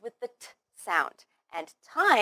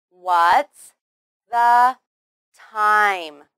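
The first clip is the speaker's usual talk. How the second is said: WHAT'S, THE, TIME said slowly, loudly and separately; a clear pause after "What's" and after "the"; word by word; 8 dB louder, much slower than usual. Shown as a demonstration. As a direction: model the question one loud word at a time. Teacher models word by word.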